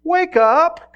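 acted exasperated protest; remonstrating donkey. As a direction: plead your case loudly, climbing to a cry. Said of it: "the donkey talks back again".

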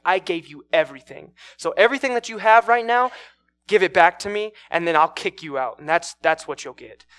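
loud, forceful ultimatum; acted angry threat. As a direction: play a bully throwing someone out. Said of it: "he gets angry with her".

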